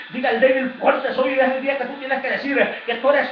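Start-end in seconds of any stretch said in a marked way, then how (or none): 0.1-1.3 louder repeated proclamation; repeating the declaration. Shown as a demonstration. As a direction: echo it with conviction. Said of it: "La palabra dice".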